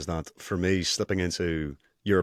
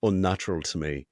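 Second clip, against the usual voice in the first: put-on European accent. Shown as a demonstration. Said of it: "I'll get stuck like this".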